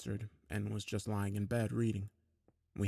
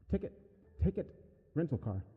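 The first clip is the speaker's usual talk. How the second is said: rambling creepy mimic voice; eerie yammering mimic; 5 semitones higher than usual. A narrator's reading. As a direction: babble it out like a creature. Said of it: "kept yammering".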